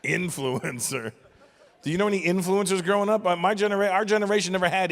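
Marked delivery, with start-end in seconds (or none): 0.0-1.1 scornful. Real, not acted. Scornful repeat of the word.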